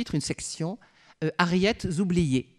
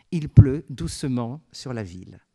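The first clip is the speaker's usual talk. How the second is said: poem recital; 3 semitones lower, 5 dB louder than usual. Shown as a demonstration. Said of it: "Et j'enchaîne".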